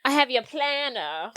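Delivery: slow mock Asian accent. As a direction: imitate the limo guy's Asian accent. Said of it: "in an Asian accent".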